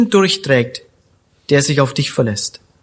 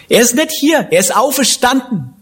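higher, with a laugh, bursting with Easter joy; joyful proclamation; 7 semitones higher than usual. Real, not acted. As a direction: announce it like the best news ever. Osterbotschaft jubelnd verkündet. (freudig lachend verkündet, höher)

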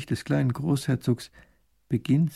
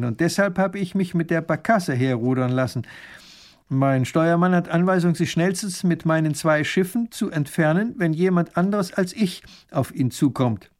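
smug sea captain; 5 semitones higher, 3 dB louder than usual. Acted. Captain explains his trick.

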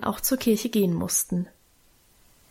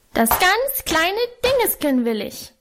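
put-on howling toddler tantrum; 9 semitones higher than usual. A narrator's reading. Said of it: "heulte er".

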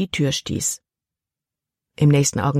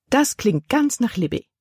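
Tante Vi höher, mit leichter Freude; erfreut; 7 semitones higher than usual. A narrator's reading. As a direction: eine Spur erfreut, höher gesprochen. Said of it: "Ihre Tante hörte sich erfreut an". (Tante Vi erfreut über Libbys Geschmack, höher gesprochen)

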